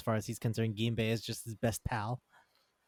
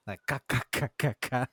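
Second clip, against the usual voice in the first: laugh with a K. Retold or imitated. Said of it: "laughs with a fucking K".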